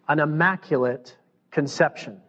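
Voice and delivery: careful, with deliberate pauses between words; slow and careful. Real, not acted. Preacher avoiding a slip of the tongue, slow and careful. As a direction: pick through the phrase word by word. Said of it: "I had to say that slow".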